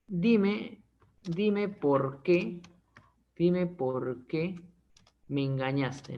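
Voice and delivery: slow, drawn-out, pleading repeats; lightly acted heartbroken lover; hurt plea. To the cheating partner, a slow mock-hurt plea. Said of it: "Eso es lo que le dices a la".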